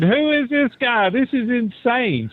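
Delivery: high, incredulous retold outcry; mock disbelief. Guest retelling his shock at hearing his own voice, mock disbelief. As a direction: raise the pitch and draw it out, aghast at yourself.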